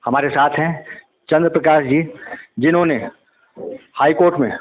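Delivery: measured reporter's piece to camera; news report. Acted. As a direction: report to camera, steady and serious. (TV reporter का गंभीर अंदाज़)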